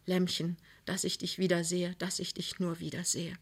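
fading to a soft breathy hush; very soft whisper. Acted. Husband bending over his wife, whispering softly. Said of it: "flüsterte ganz leise".

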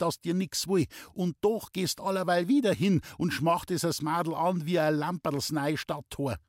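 a fussing mother voice, scolding; scolding old mother. A narrator's reading. Traudl scolding her son.

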